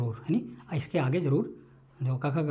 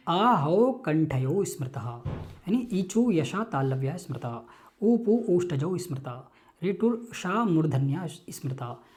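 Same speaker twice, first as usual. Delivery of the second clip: slow, measured chanting of a Sanskrit rule; sutra recitation; slower than usual. Shown as a demonstration. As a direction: recite it syllable by syllable like a verse. (सूत्र का धीमा पाठ)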